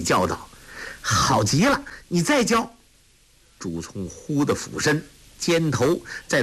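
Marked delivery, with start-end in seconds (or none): 1.0-2.7 put-on high, eager boyish cry; delighted call. A narrator's reading. Tolui delighted, calling to Zhu Cong for more. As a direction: beg for the next trick with glee. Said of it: "托雷大喜，叫道".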